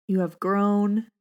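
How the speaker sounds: composed again after laughing off tears; steady, tender retake; recovered, gentle meditation read. Real, not acted. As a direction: say it slowly and calmly. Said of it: "Oh, gets me every time".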